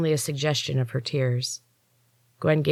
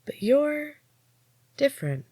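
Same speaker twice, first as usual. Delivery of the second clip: each word stretched, higher start; slow, drawn out; 11 semitones higher than usual. A narrator's reading. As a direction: draw out every word. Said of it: "she said slowly, drawing out each word".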